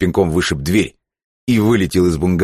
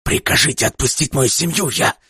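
high, strained plea rising; broken-voiced plea; desperate begging; 11 semitones higher than usual. A narrator's reading. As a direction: beg for the family. Father begging.

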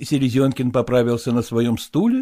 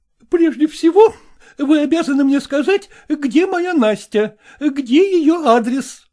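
high, loud, scolding woman's voice; indignant madam; 5 dB louder than usual. A narrator's reading. Zoya challenging Selezenkin, high and indignant. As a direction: demand it like an outraged choir mistress.

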